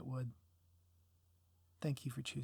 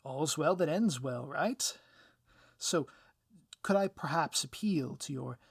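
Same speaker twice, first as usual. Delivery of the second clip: lightly voiced villain, slow and wheedling; a hint of a cornered villain pleading; 6 dB louder than usual. Cornered villain appeals to the hero's better nature, slow and wheedling.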